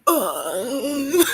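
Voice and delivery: loud, high imitated heave; exaggerated retching groan; mock retch. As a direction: act out throwing up. Acting out vomiting again.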